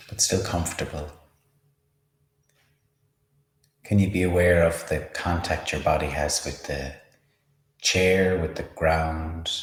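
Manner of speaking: unhurried meditation guide, long pauses; measured, spacious mindfulness instruction; guided meditation. Acted. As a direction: lead a body scan calmly, leaving space between phrases. Leads a body-scan meditation.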